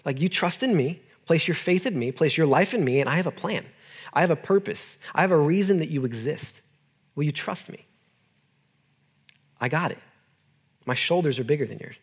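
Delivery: softened, gentle voicing of God; God reassuring. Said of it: "God's just saying".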